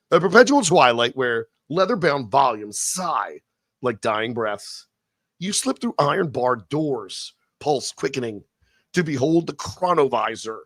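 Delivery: slow, hushed storyteller voice; dramatic narration. Acted. Host reading the Chronovisor topic in slow, hushed dramatic narration. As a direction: set the eerie Vatican scene.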